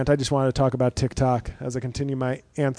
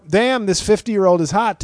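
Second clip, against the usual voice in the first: mock impressed; 6 semitones higher, 6 dB louder than usual. Inner voice ogling a TikTok.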